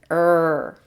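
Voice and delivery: a sustained "Er" for others to join; drawn-out "er" sound. Shown as a demonstration. Teacher leads learners repeating the sound, drawn-out "Er". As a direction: hold "Er" long and level. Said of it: "Say that with me".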